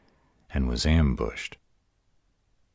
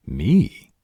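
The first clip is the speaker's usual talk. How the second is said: indignant; 7 semitones higher, 6 dB louder than usual. Real, not acted. Indignant at smelling like himself.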